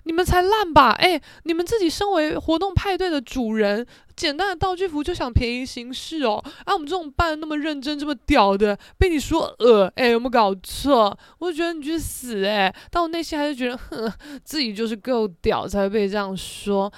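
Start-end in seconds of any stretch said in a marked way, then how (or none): 0.0-11.2 half-hammed indignant comeback; indignant retort. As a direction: throw the insult right back, offended. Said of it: "我想说".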